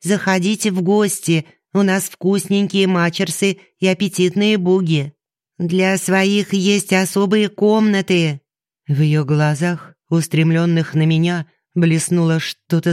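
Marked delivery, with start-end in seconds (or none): 0.0-8.4 high sweet fairy voice; sing-song invitation from a tiny fairy; pixie. Acted. Fairy voice continues.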